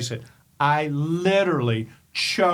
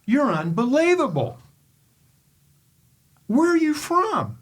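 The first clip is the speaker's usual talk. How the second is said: imitating Pancho Gonzalez; 9 semitones higher than usual. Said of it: "and he goes".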